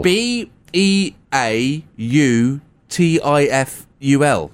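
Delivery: slow letter by letter; spelling it out. Shown as a demonstration. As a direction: spell each letter slowly. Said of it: "Can you spell beautiful?".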